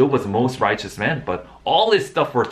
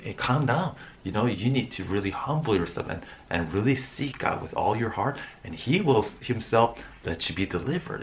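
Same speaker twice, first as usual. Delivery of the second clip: calming counsel; 5 dB quieter than usual. Retold or imitated.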